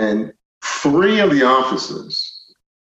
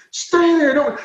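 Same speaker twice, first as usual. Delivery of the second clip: retold police order; 13 semitones higher, slower than usual. Officers' command in retold standoff.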